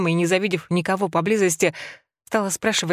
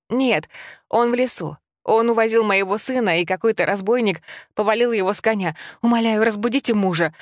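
urgent, raised pleading; desperate plea; 4 semitones higher than usual. Acted. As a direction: beg for help in a panic. Widow begging neighbour for help. (отчаянная мольба)

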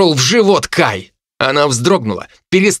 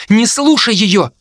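urgent plea; 8 semitones higher than usual. Acted. Jo pulls Ray back.

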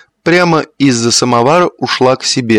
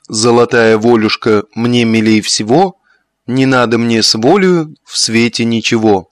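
declaiming verse. A narrator's reading. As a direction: recite it like a little poem, half in jest. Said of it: "Бахарев продекламировал".

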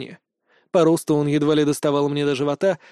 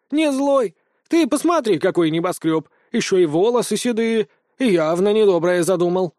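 high, shrill-pitched accusation; alarmed hen pointing out danger; suspicious hen; 4 semitones higher, 3 dB louder than usual. Acted. Chicken accuses the tall stranger.

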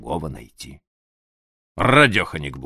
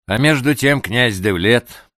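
ordinary delivery

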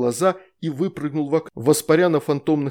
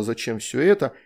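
ordinary delivery, nothing marked

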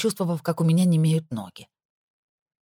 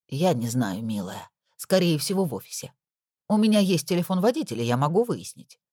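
worried housekeeper. Acted. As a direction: share the worry gently. Nora answers Lana.

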